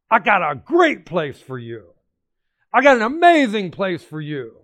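voicing God's promise. Preacher voices God speaking.

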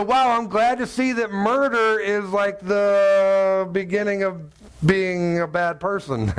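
slow, dry mock-amazed sarcasm; sarcastic. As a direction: stretch it out, pretending to be impressed. Sarcastic reply to niece.

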